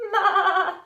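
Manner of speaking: high, loud goat's maa; a storyteller's bleating goat. A narrator's reading. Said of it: "said a goat".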